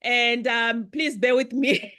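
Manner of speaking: loud, excited welcome to the guests. Real, not acted. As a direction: open big and loud, blazing with excitement. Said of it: "I'm very loud".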